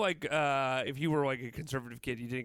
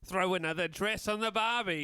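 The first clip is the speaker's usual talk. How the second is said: put-on Australian accent; 4 semitones higher than usual. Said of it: "my impression of a, uh, an Australian kid".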